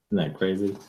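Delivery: ordinary delivery, nothing marked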